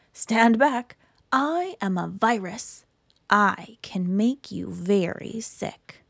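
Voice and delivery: low, creepy virus, last line whispered; menacing germ voice. Acted. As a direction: threaten them like a sneaky virus. Virus threatens the reader.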